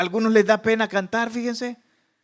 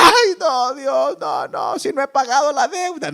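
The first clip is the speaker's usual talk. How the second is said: mock panic; 4 semitones higher than usual. Mock dying person panicking.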